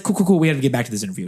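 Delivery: put-on lightly done New Zealand accent; a touch of amateur Kiwi accent. Interviewer resuming the interview, light New Zealand accent. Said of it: "do a very bad New Zealand accent".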